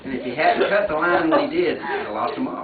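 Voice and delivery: reading while laughing; laughing through reading. Real, not acted. Reading the fish tale aloud, laughing at it. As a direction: laughs break into the words. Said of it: "laughing through tall tale".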